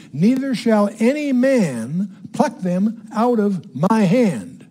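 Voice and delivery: slow, measured Bible reading in separated phrases; emphatic scripture reading. Acted. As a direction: read the verse out deliberately, phrase by phrase. Reads scripture aloud to teach.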